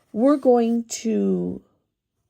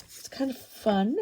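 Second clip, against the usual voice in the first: words mumbled around a pin held in the lips; talking through a pin in the mouth; 3 semitones higher, 4 dB quieter than usual. Real, not acted. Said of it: "Sorry, I got a pin in my mouth".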